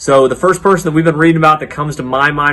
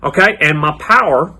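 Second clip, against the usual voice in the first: put-on cowboy accent; 2 semitones higher than usual. Children's leader teaching the memory verse, hammed-up cowboy accent. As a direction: put on a playful cowboy twang, stretching the phrases. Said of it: "do my best cowboy accent for y'all".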